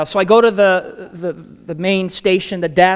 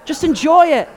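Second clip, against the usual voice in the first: emphatic brother; 11 semitones higher, 6 dB louder than usual. Retold or imitated. Brother repeats advice, stronger.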